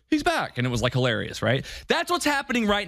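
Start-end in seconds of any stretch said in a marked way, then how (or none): 0.1-0.6 high stunned gasp of realization; Fudge's shocked admission. Retold or imitated. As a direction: say it like a minister finally facing the truth. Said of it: "he sees him and he goes".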